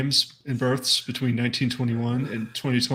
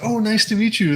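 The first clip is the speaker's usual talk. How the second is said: fake polite; 9 semitones higher, 5 dB louder than usual. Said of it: "And I was like".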